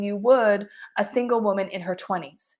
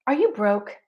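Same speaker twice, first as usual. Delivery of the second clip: cheesy pitch; 2 semitones higher than usual. Shown as a demonstration. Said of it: "Do not say".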